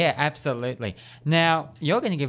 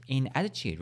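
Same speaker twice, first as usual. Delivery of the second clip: ordinary talk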